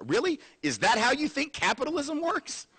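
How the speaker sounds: pitched high, laughing in disbelief; half-laughing mock disbelief; incredulous laugh. Real, not acted. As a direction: laugh at the idea as you ask it.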